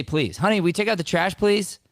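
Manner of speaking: lightly mocking high-pitched wife asking, please; pleading wife. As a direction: squeak it up like a wife asking sweetly. Imitating wife's polite ask, higher.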